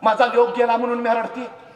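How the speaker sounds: high, loud sharp retort; a mother's loud, high, fierce retort. Acted. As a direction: snap back at the king. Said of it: "तशी ताडकन शिवा काशिदांची आई म्हणाली".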